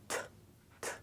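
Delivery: "t" with a strong, aspirated t; strong Korean t. Shown as a demonstration. Teacher demonstrates the strong t sound to the class. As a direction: push a strong puff on "t". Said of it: "strong T sound".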